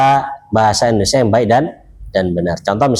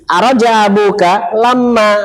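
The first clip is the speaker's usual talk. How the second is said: slow, higher, carefully voiced Arabic quote "Araja abuka lama"; Fusha Arabic; 7 semitones higher, slower than usual. Shown as a demonstration. Teacher to students, slow classical Arabic example. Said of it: "itu fus-, fusha".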